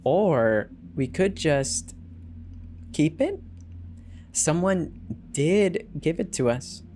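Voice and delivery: slow, coaxing, voice jumping high on keep it; a wife coaxing her husband to keep the stray money, sly and slow; sly suggestion. Acted. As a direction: tempt him, drawn out and playful.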